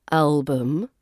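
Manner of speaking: "album" ending in an unstressed -bəm; schwa in album. Shown as a demonstration. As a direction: reduce the U of "album" to a relaxed uh. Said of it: "it's that U is the schwa".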